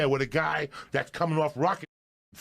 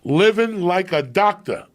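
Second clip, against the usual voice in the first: commercial read; 7 semitones higher, 8 dB louder, slower than usual. Retold or imitated. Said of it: "that was the read".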